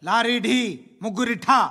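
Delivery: mock headline reading. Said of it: "అని heading పెట్టింది నువ్వేనా".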